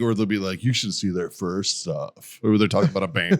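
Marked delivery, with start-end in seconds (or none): 0.6-2.4 slow, lower-key smug hipster; mock a smug music snob, slowly and softly; smug know-it-all. Hipster talking down about a band, mock smug. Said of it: "like they're smug and they know everything".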